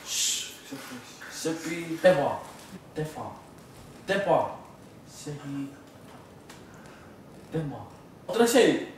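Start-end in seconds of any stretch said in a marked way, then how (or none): 1.3-7.8 mumbled through a mouthguard; words blurred by a mouthguard; wearing a mouthguard. Real, not acted. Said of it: "with these on".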